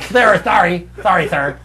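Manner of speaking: loud, high lisping nerd; Simpsons-style lisp. Shown as a demonstration. Comic showing his intended lisp, loud high cartoon voice. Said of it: "like a lisp in the same way of a fucking Simpsons".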